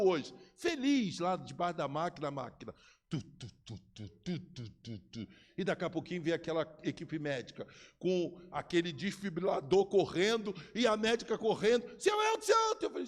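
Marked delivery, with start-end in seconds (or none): 3.1-5.3 low mock beeping of a heart monitor; low imitated beep beep. 12.0-12.9 high urgent call of his name; high alarmed shout of the name. Retold or imitated. Nurse calling him in alarm.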